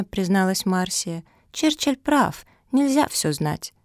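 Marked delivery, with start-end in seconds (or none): 1.5-3.7 much higher, slower little-pup voice; little puppy. Acted. Marsia backs up Churchill in a tiny high voice.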